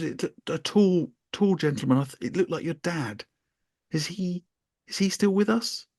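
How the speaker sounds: hint of a mystic medium's voice; mock medium. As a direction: play the spooky medium, half-joking. Medium voiced, higher, slower start.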